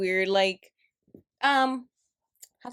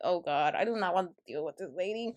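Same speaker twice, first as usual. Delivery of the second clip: dreading inner thought; 5 semitones lower, 7 dB quieter than usual. Retold or imitated. Her dreading thought about customer.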